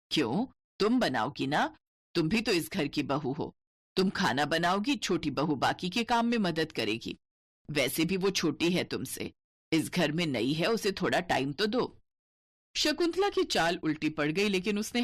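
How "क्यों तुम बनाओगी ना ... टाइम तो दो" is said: stern mother-in-law. Acted. Mother-in-law scolds elder daughter-in-law.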